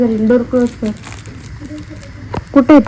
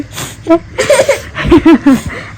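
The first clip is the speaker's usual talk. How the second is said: light, drawn-out laugh; 7 semitones higher than usual. Real, not acted. Mother coaxing her crying child to smile, laughing.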